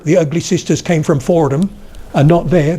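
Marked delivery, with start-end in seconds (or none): 0.0-1.7 West Country accent resonating too far down; wrong placement. Shown as a demonstration. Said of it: "Not down here".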